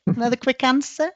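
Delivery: chuckling through the words; quick, amused laugh while speaking. Real, not acted. Laughing at her own short answer.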